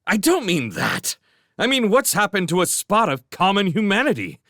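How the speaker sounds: high, loud, fast outraged rant; indignant rant. A narrator's reading. Master ranting at his orphan servants, outraged. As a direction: vent fury at the world.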